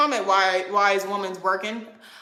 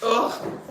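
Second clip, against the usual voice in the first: disgusted groan; 4 dB quieter than usual. Real, not acted. Woman fed up with insecure critics, disgusted groan.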